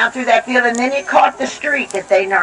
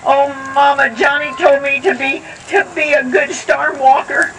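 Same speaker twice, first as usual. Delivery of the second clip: lightly voiced girl; 4 semitones higher than usual. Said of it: "She said".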